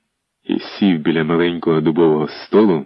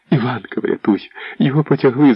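a mother lamenting her seized son; wailing; 6 semitones higher than usual. A narrator's reading. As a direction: wail out a plea for rescue. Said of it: "заголосила вона".

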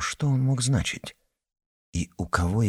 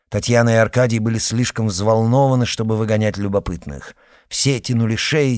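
ordinary delivery, nothing marked

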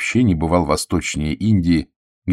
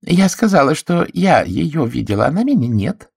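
self-important, meaningful; 10 semitones higher than usual. A narrator's reading. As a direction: let every word hint at more. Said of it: "с непомерной важностью и многозначительной интонацией".

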